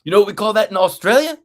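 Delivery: put-on high loud accented question; Hector Lombard impression. Host mimics Hector Lombard taunting Dean, high accented voice. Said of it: "he goes".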